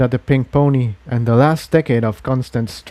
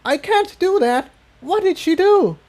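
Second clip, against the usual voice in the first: higher, pleading protest; distressed young dragon. Acted. Spike refuses the voice's order, distressed. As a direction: refuse in alarm.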